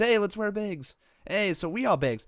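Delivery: high, loud mock English accent; a botched try at an English accent; attempted English accent. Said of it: "That's n-, not an English accent".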